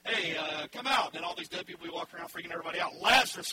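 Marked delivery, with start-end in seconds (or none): 0.0-1.1 loud call. Acted. Generic call to the dead. 3.0-3.5 a loud shout of the name Lazarus; shouting the name into the tomb; loud call. Acted. Jesus calling Lazarus by name.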